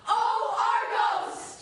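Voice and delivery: anguished cry. Acted.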